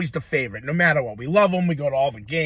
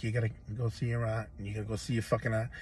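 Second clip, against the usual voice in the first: nagging mom; 6 semitones lower, 11 dB quieter, faster than usual. Retold or imitated. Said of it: "She's like".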